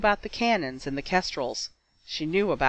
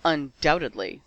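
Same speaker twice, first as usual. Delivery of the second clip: sarcastic. Acted. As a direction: stretch it out like a weapon. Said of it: "said Flummery sarcastically".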